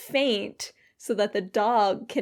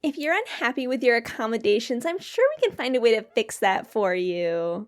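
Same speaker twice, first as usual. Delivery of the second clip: brisk, pushy polite clerk voice; sweetly aggressive service desk tone; customer service voice; faster than usual. Acted. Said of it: "I did just a very aggressive customer service voice".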